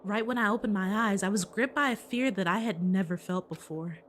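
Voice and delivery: low, hushed narrator reading; game narration voice. Acted. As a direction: read it like an uneasy inner monologue. Reads Hajime's inner monologue.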